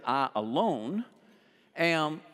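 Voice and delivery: "I alone am" spaced out word by word; emphatic. Shown as a demonstration. Preacher voicing Jesus' emphatic claim, deliberate stress on "I alone am". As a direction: set "I alone" apart, then land on "am". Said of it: "that's very emphatic".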